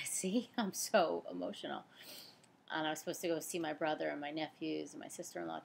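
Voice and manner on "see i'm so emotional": a little laugh as she recovers; laughing through tears. Real, not acted.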